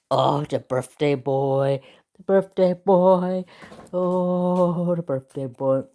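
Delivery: slow, stretched coo; doting pet talk. Real, not acted. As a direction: fuss over the birthday dog. Cooing to her dog.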